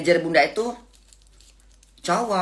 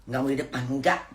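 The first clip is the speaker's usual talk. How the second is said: soft, softer sulky pleading; spoiled whiny voice; 2 semitones lower, 7 dB quieter than usual. Retold or imitated. Mother imitating her spoiled refusal to the boss. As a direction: sulk like a spoiled child, softly. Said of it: "ngomongnya kayak manja-manja gitu".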